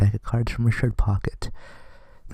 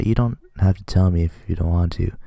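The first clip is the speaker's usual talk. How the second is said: normal talking voice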